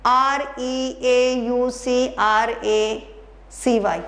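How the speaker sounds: letters spelled out slowly one by one; slow spelling out. Shown as a demonstration. Teacher spelling bureaucracy for students, slow and deliberate. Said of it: "ब्यूरोक्रेसी भी ठीक है".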